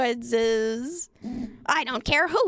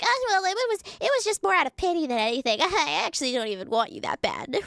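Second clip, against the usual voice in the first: mocking woman; 5 semitones higher than usual. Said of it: "She's like".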